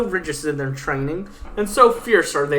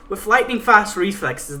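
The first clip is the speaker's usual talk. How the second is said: normal talking voice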